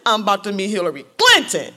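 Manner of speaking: loud burst on the last word; excited, punching the name; thrilled boast. Retold or imitated. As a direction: announce it in giddy amazement. Acting out her own thrill.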